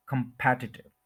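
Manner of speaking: कॉम्पिटिटिव as kum-PET-i-tiv; कॉम्पिटिटिव with strong second syllable PET; stress on second syllable. Shown as a demonstration. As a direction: hit PET in कॉम्पिटिटिव, keep the rest short. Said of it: "second के ऊपर stress है".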